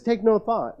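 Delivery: emphatic quote. Acted. Quoting Jesus emphatically.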